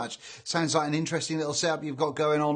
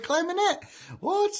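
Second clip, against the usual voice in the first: mock surprise; 14 semitones higher than usual. Mock disbelief at chat comment.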